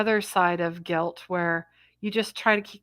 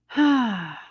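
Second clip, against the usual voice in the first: heavy exhaled sigh; audible sigh. Real, not acted. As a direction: let out an open, breathy sigh. Sighs before going on.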